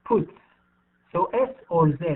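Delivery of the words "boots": "Boots." ending in a voiceless s; final S sound. Shown as a demonstration. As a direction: model "Boots." with a clean hissed s at the end. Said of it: "pronounce it as S".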